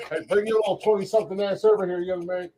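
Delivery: put-on high, hammy old lady calling out; older woman voice. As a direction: play a bossy older lady on her porch. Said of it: "Mama Joe's on her porch going".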